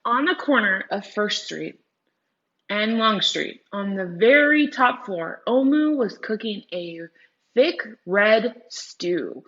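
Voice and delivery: storybook read-aloud; reading to children. Acted. Teacher reading a story to her class, slow and clear. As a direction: read it slowly to the class like a picture book.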